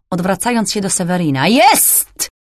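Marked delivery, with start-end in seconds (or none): 1.5-2.3 high, excited cry of discovery; exclaimed. A narrator's reading. Thief finding the hidden lock, excited shout. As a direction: burst out with triumph. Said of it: "wykrzyknął zaraz potem".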